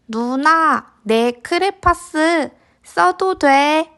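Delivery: high slow coaxing ask; sweet little boy. Acted.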